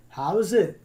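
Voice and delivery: drawn-out Hawaiian surfer greeting; laid-back surfer accent, slowly. Shown as a demonstration. Teacher demonstrating a greeting from Hawaii, surfer voice. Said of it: "More of a surfer kinda thing".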